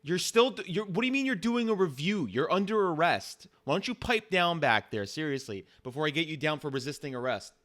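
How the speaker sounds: high, loud, incredulous cop; exasperated police officer. Acted. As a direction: scold the suspect, stumbling with outrage at first. Plays the officer.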